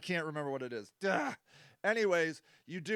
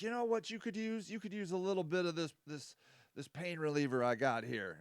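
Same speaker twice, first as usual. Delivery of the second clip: softer, sly dealer offering a fix; hushed dealer pitch; 9 dB quieter than usual. Pretend. Dealer voiced in skit.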